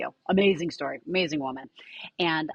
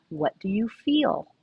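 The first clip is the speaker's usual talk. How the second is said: slow, gentle question, pitch a touch higher; very calmly; 4 semitones higher, 3 dB louder, slower than usual. Retold or imitated. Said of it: "Very calmly".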